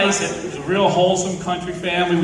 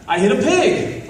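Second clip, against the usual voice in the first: laughing; 5 semitones higher than usual. Real, not acted. Laughing through the story.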